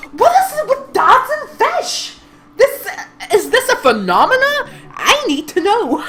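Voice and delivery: high, loud, cracking with laughter; laughing too hard to get it out; laughing outburst. Real, not acted. The player cracking up over dads and fish, loud laughing.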